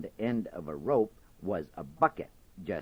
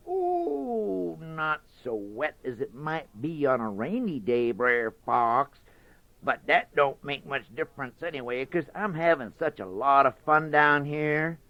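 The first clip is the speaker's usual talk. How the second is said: lightly higher, breezy rabbit voice; sly Brer Rabbit; 6 semitones higher than usual. Acted. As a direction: tease him, pretend it's fun.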